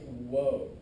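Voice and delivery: mock white blood cell. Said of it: "I'm like".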